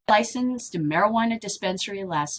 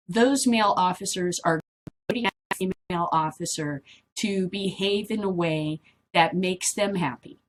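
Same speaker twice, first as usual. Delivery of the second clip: ordinary talk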